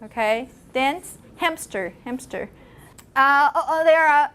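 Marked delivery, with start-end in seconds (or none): 0.7-2.5 "hamster" said slowly with a p slipped in, "hampster"; slow demo. Shown as a demonstration. Teacher demonstrating the inserted p slowly. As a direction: drag out "hamster" and let a p creep in. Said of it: "insertions that you're not aware of".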